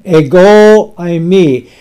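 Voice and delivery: "ego eimi" slow, with the weight on "ego"; stress on ego. Shown as a demonstration. Preacher teaching the Greek words to the congregation, stress on "ego". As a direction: press the "ego" in "ego eimi", let "eimi" follow lightly. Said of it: "The emphasis is on the word I".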